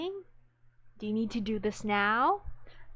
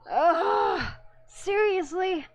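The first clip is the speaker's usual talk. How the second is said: gushing exasperation; 9 semitones higher, 5 dB louder, slower than usual. Real, not acted. Excited exasperation.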